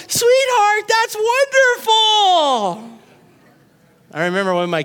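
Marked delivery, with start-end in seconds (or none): 0.1-2.9 high, slow, overjoyed sweetheart; much higher, drawn-out praise; gushing wife. Retold or imitated. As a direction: gush like a thrilled wife. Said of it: "be happy with him".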